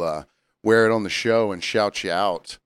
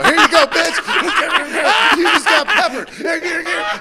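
gleeful pepper attack; 3 dB louder than usual. Pretend. To co-host imagining peppering the rude customer, laughing high shrieks. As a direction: cackle as you crank the grinder at her. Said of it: "run out there with the giant pepper grinder and go".

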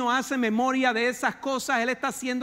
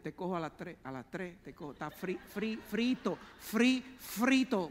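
mock gotcha; 3 semitones lower, 5 dB quieter than usual. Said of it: "le diríamos".

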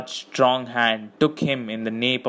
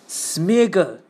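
higher, urgent cry of the name; desperate call; 7 semitones higher, 3 dB louder than usual. A narrator's reading. Frodo calling Smeagol away from his fish, desperately. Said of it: "said Frodo desperately".

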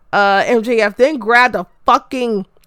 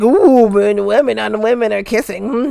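imitating gawking men. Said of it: "all the men are just like".

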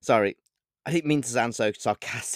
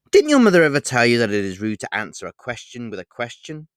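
with a smile; 9 dB louder than usual. A narrator's reading. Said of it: "I replied with a smile".

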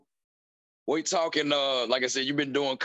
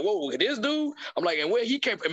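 higher-pitched, acted-out surprise; mock disbelief; 6 semitones higher than usual. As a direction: play puzzled surprise at who showed up. Acts out surprise at seeing someone.

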